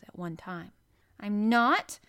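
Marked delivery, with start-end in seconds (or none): 1.2-2.0 high, loud indignant cry; furious cry. A narrator's reading. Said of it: "at once furious and slightly pleased".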